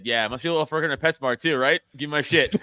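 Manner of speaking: fast mocking comeback; sarcastic comeback to a PetSmart cashier; retold sarcastic jab. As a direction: needle him quickly and snidely. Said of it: "I said".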